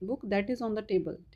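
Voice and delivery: very slow, word by word, as if dictating; dictation pace. Shown as a demonstration. Teacher dictating an example sentence to the class, very slow. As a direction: spell the sentence out slowly for students to copy.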